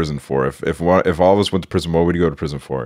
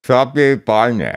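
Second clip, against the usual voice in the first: slow, mushy words through crammed cheeks; cheeks stuffed full; 5 semitones higher, slower than usual. Real, not acted. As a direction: barely get it out past a packed mouth. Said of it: "I heard it, but a little bit, like, European".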